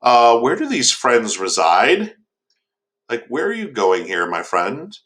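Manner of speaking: probing question, slow to start; retold questioning with a touch of suspicion; mildly suspicious. Old man asks the monster where he's going, suspicious. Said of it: "starts getting a little suspicious".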